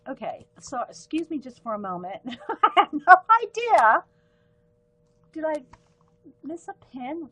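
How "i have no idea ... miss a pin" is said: laughing. Real, not acted. Host baffled by a stray pin top, real laughing. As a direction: laugh out loud through the words, stretching them.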